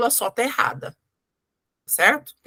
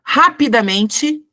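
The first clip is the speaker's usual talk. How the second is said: "rapidamente" drawn out slowly, louder, rising; slow dictation stress; 5 dB louder, much slower than usual. Shown as a demonstration. Teacher dictates the long adverb, slow and louder. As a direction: stretch out "rapidamente" and lift it at the end. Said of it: "vamos pegar, por exemplo, um advérbio grande".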